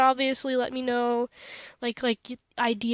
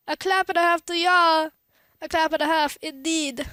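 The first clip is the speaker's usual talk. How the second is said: read weird; 3 semitones higher, 3 dB louder than usual. Acted. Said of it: "I read that weird".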